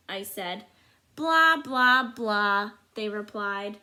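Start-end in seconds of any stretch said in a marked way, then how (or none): 1.1-2.7 dismissive blah blah. Acted. Bad eggs dismiss the good egg.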